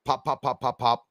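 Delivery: quick popping gun noises; spoken pop-pop of a gun; imitated gunshots. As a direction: mimic gunfire with popped syllables. Imitates gunfire from the video.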